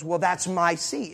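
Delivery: drawn-out, mildly insistent objection; mild insistence. Retold or imitated. Older lady objects to traveler about the seat, mildly insistent. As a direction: slowly state your claim, without raising the voice. First take of seat quarrel.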